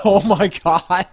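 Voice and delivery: big drawn-out reaction to a pun; loud exasperated amusement. Real, not acted. Game master reacting to the bear necessities pun, loudly exasperated.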